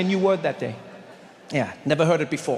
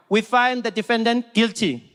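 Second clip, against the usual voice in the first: put-on slow, higher South African accent; South African juror; 4 semitones higher, slower than usual. Juror giving the judge a verdict, South African accent. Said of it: "imagine a South African jury".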